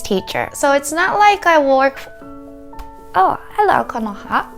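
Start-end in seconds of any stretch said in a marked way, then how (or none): 3.1-4.5 cooing greeting. Real, not acted. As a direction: coo it like greeting a pet. Greets pet Konoha mid-sentence.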